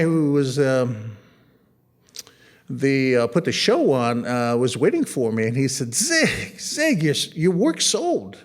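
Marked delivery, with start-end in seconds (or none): 5.9-8.4 excited news. Retold or imitated. Curator excitedly telling news.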